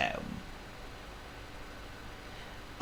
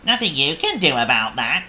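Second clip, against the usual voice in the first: raised, louder worm voice; worm character; 6 semitones higher, 7 dB louder than usual. A narrator's reading. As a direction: toss it off as the worm. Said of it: "said the worm".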